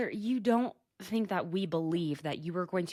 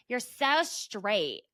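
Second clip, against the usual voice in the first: mild mock yell, very drawn out; half-hearted imitation of someone yelling; retold yell; much slower than usual. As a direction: stretch it out slowly like a teasing call. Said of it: "Heather's gay downstairs yells".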